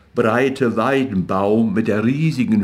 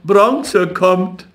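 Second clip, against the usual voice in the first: higher, sing-song repeat of Bronze; taunting call; 8 semitones higher, 4 dB louder than usual. A narrator's reading. Street boys teasing Jakob, sing-song calling. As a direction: keep chanting it. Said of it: "die Straßenjungen riefen".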